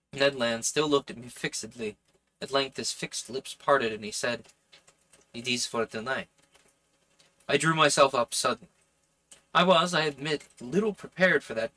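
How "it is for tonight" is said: lightly voiced French-accented character; French-accented dialogue, understated delivery. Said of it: "I'm doing this French accent".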